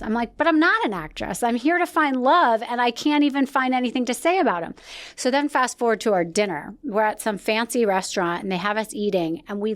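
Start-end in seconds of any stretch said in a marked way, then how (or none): 0.4-4.7 higher-pitched, exasperated protest to producers; retold frustration. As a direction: plead your case, re-enacting the frustration. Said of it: "I would get so frustrated".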